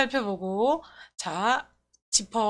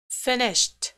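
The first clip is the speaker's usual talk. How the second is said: "finished" as one falling beat; stressed single word. Shown as a demonstration. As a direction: say "finished" alone with a clear stress at the front. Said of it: "이렇게 비슷해". ("finished"를 한 박자로 또렷이 강세)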